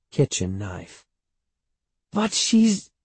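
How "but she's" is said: put-on very high, drawn-out child's voice; whining boy. A narrator's reading. Boy objecting to his mother about the aunt, whining. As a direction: protest in a plaintive whine.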